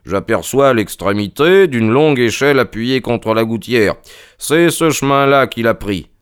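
lightly voiced detective announcing a find; a touch of excitement, pitch lifting at the end; Holmes, animé. Voices Holmes reporting discovery. (Holmes, légèrement animé par sa découverte)

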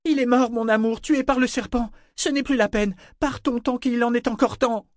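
high-pitched, insistent cry to leave; urgent pleading. A narrator's reading. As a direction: plead with your love over the storm. Pleading with him to flee. (supplication pressante, voix aiguë)

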